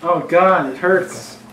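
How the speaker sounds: high, loud mock wail of pain; mock crying. Joking about crying over spilled onion, mock-agonized. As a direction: ham up the onion tears.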